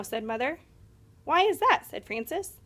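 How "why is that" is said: indignant why. A narrator's reading. Frances asks why no egg.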